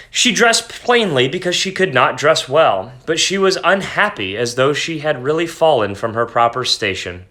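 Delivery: expressive read-aloud with lifting phrases; story narration. A narrator's reading. Teacher reading The Necklace aloud to students, dramatic narration.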